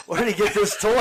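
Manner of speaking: words broken by laughter; laughing. Real, not acted. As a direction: laugh through the line. Laughing through question.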